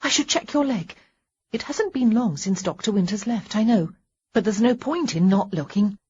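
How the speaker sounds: lightly voiced wife, busy and fussy; nervous wife. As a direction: bustle with nervous energy. Wife fussing over husband's leg.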